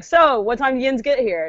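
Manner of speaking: put-on slow Pittsburgh-style accent; yins dialect. Showing how locals use yins, Pittsburgh-style accent. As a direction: draw out the regional dialect. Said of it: "we'll be like".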